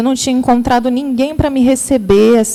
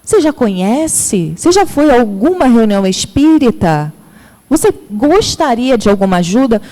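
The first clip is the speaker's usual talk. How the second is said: welcoming greeting. Shown as a demonstration. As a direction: greet her kindly, taking your time. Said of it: "Diga a ela".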